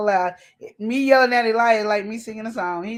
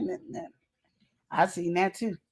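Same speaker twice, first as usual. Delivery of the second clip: ordinary talk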